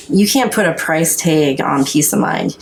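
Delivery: broad Upper Midwest vowels; a touch of North Dakota accent. Real, not acted. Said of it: "You totally had your North Dakota accent right then".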